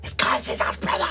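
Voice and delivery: high, fervent preacher voice; street preacher. Acted. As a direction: zealot greeting a convert. GM plays the preacher.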